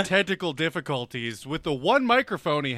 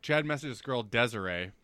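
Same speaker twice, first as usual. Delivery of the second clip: slurred words; 4 semitones lower, 6 dB quieter than usual. Real, not acted. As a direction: let the words slur after drinks. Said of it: "God, I'm slurring my words".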